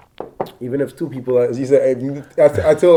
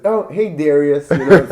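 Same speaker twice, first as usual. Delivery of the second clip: put-on high-pitched, louder girly American greeting; American blonde girl; 5 semitones higher, 11 dB louder than usual. Mimicking every blonde girl who greets him, girly American. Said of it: "every blonde hair girl says".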